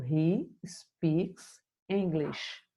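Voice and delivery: slow, clear classroom model; slow teacher demo of He speaks English; slow model sentence. Shown as a demonstration. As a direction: spell it out slowly for students. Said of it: "na afirmativa, ele vai usar o S".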